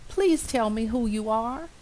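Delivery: high, eager mouse question; little mouse asking. Acted. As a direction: ask eagerly, pitched high. Mouse asks butterfly.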